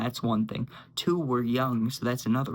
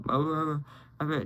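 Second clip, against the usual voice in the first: wordless mock mumble; imitated mumbling. Friend coming round after an hour, imitated mumbling. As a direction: imitate someone mumbling incoherently. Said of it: "he was mumbling".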